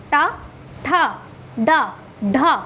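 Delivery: टा, ठा, डा, ढा with tongue rolled back; retroflex sounds. Shown as a demonstration. Teacher models the retroflex row, tongue rolled back on टा, ठा, डा, ढा. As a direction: drill टा, ठा, डा, ढा separately from the roof of the mouth. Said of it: "मूर्धा से होता है".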